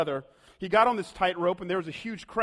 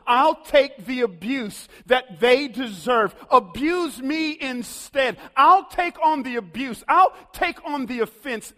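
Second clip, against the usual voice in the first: slow, louder, higher earnest plea; Jesus pleading; 4 semitones higher, 7 dB louder, slower than usual. Acted. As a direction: offer yourself in their place, slowly. Jesus offers to bear abuse.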